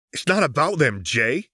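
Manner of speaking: an understated snarl at Jay. Acted. Echo grabbing Jinx by the collar, mild snarl. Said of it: "Echo snarled".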